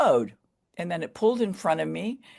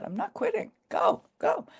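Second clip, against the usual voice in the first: much higher, determined retort; defiant. Retold or imitated. Runner refusing to quit to the press, high defiant retort. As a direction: shoot back with stubborn resolve.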